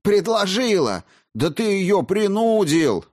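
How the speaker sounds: high, loud furious exclamation; losing her temper. A narrator's reading. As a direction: explode at him. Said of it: "окончательно вышла из себя".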